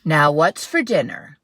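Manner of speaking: loud, booming bear; loud hungry bear. Acted. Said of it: "said the bear".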